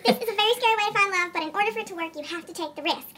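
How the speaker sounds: hushed advice. Acted. Bachelorette reassuring a nervous suitor, hushed advice. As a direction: lean in and counsel quietly.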